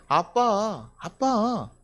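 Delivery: imitated child's plea; pleading child. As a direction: coax Dad like an earnest kid. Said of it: "그 간절한 마음을 보여요".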